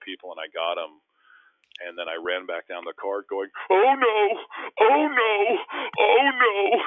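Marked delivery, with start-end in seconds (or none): 3.7-6.8 very high, loud whooping cry; long, high mock wail; re-enacted celebration yell. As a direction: holler it running back down the court. Retold yelling after dunk.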